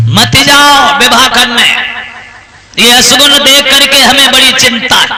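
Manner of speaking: measured cautioning sister-in-law, lightly acted; worried pleading. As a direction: gently try to talk him out of it. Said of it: "भाभी समझाने लगी". (चिंता से समझाती भाभी)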